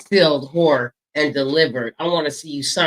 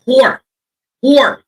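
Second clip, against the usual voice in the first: high, loud yell of the word; shouted insult; throaty shout; 11 semitones higher, 10 dB louder than usual. Shown as a demonstration. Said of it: "That's what I said".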